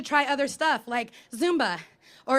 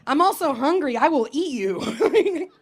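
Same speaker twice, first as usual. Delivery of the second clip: mock menace; 4 dB louder, slower than usual. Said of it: "I'm like".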